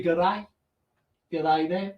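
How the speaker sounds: mock Australian greeting; Australian accent. Host greets a viewer from Australia, playful Australian accent. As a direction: put on a light Australian twang. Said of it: "did you like that accent".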